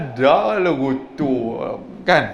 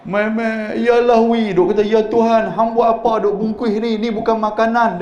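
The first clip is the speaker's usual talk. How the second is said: mock the foster mother fussing, pitched up; 6 semitones higher than usual. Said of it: "dia kata lagu tu".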